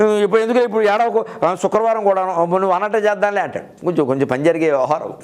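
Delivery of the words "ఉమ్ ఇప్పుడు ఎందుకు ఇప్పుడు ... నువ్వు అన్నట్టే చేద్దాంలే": slightly raised pitch, hastily giving in; mildly acted husband soothing a crying wife; lightly voiced placating husband. Husband giving in to his tearful wife, mildly placating. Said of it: "వెంటనే మగాడు".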